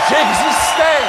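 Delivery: loud mock-grand triumph; triumphant cry. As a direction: crow it out in glory. Triumphant about media impact.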